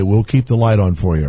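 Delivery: quiet, unhurried radio line; calm announcer read. Shown as a demonstration. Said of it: "I want you to quiet down, take a beat".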